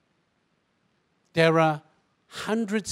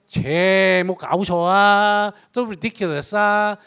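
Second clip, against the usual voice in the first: mocking Singlish disbelief, louder; scoffing Singlish skeptic; 4 semitones higher, 4 dB louder than usual. Sceptical listener scoffing at resurrection, in Singlish. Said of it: "most of us would sit there and go".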